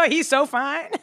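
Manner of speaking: high, laughing gush; giggly swooning. Real, not acted. Host swoons over a celebrity to co-host, giggling. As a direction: gush through real giggles.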